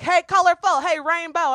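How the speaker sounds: high, loud imitation of a catcall; mock catcaller. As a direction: holler it like a street catcaller. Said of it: "I would get catcalled, and people were like".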